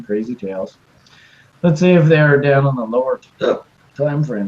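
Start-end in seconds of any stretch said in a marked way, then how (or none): 1.6-4.5 talking with hiccups. Real, not acted. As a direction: speak through the hiccups. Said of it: "Excuse me, I got the hiccups".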